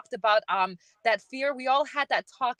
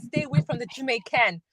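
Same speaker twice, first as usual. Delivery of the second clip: put-on Somali accent. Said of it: "in a very thick Somali accent".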